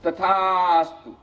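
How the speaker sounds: slow, drawn-out divine boon; conch god granting. Acted. Conch god grants the wife's wish, slow and solemn. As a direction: draw out each syllable like a deity. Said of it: "શંખ દેવતા કહે".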